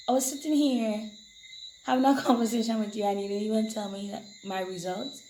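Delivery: loud, exasperated retelling, laughing mid-line; indignant outburst. Retold or imitated. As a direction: complain loudly to a friend. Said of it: "I was like".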